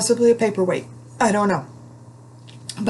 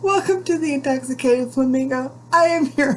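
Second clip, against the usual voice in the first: sultry host greeting; 7 semitones higher, 3 dB louder than usual. Acted. Host greeting viewers at show start.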